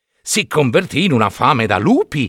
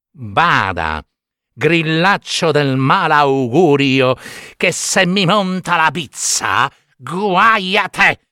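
put-on slow, menacing boyish warning; threatening puppet; slower than usual. Pinocchio threatens the cricket slowly. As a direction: draw out the threat.

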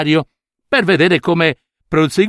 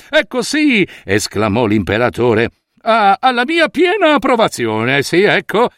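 pompous approval; 4 semitones higher than usual. Acted. Emperor approves the cloth.

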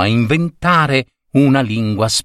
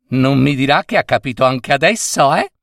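put-on fast, huffy old woman; indignant old lady; 3 semitones higher, faster than usual. Old lady indignant at the gentleman, fast and huffy. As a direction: bristle at being mocked. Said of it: "esclamò indignata la vecchia signora".

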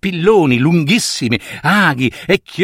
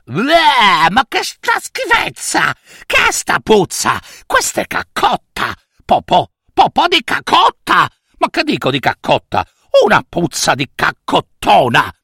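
disgusted uncle; 4 semitones higher than usual. Acted. Uncle smells the dung.

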